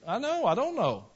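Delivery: high, loud pulpit fervour; full-voiced sermon climax; fervent preaching. Real, not acted. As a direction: preach it with rising passion. Preacher rises to passionate pitch.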